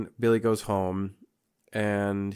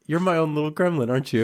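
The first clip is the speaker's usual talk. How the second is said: higher, playful cooing to a loved one; cutesy teasing; 7 semitones higher, 4 dB louder, much faster than usual. Retold or imitated. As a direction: coo it like talking to a pet. Cooing pet name to wife.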